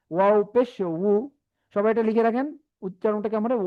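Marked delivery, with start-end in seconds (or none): 0.1-1.1 উ as a slow wu from the lips; lip-made wu. Shown as a demonstration. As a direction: draw উ out through the lips, like wu. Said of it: "কিন্তু ঠোঁট থেকে হবে".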